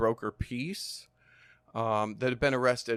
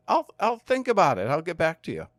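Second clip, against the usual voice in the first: mock thoughtful; 5 semitones higher than usual. Teasing reply to a bully.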